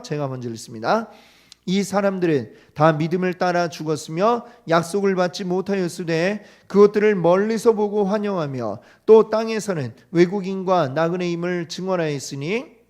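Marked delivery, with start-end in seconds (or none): 1.6-12.8 loud, measured Bible reading; scripture reading. Acted. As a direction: read the verses solemnly to the congregation. Reads scripture aloud.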